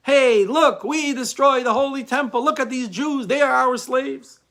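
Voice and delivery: triumphant taunting shout; jeering crowd. Retold or imitated. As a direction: call out gloatingly like revellers mocking captives. Young Romans jeering at Jewish captives.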